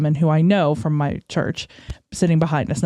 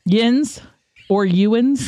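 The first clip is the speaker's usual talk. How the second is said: Pittsburgh dialect, pitched a little up; Pittsburgh accent; 4 semitones higher, much slower than usual. Shown as a demonstration. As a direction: try out Pittsburgh slang in its accent. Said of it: "that Pittsburgh accent".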